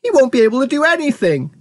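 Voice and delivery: high, despairing outburst; distressed cry. A narrator's reading. Mother fretting over shrunken son, crying out. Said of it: "cried Missus T V".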